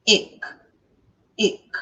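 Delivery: "Ik" as a short i closed by a k; isolated teaching syllable "Ik"; syllable demo. Shown as a demonstration. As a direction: say "Ik" alone, brief vowel and released k. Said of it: "Isso me diz que é o quê?".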